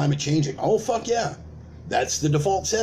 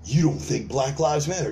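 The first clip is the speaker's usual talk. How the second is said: gasp, then accuse; mock shocked gasp. Activist catching a doubter, mock shocked accusation.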